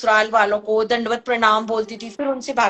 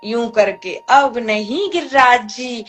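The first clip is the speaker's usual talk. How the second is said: mother's pleading; slower than usual. Retold or imitated. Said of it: "हाथ जोड़ के बोलती है".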